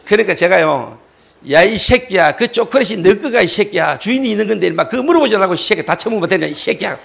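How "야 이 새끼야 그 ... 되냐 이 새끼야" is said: retold cursing tirade; angry scolding. Pastor scolds thief for not asking, retold angry tirade. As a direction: rattle off a rebuke, easing at the end. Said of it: "내가 말은 막 이러면서도요".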